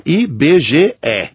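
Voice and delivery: final E of "I B G E" said as open "eh"; E aberto. Shown as a demonstration. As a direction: spell out "I B G E" letter by letter, ending on an open "eh". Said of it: "isso, com E aberto". ("I B G E" com o E final aberto)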